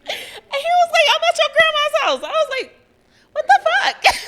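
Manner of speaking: laughing hard, voice way up; can barely get it out through laughter; high-pitched laughing retell. Real, not acted. Laughing while retelling the call.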